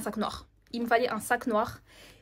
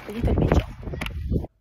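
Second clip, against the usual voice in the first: squeaky joke voice; 6 dB louder, much slower than usual. Pretend.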